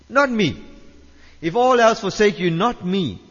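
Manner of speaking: emphatic insistence. Retold or imitated. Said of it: "Peter insisted emphatically".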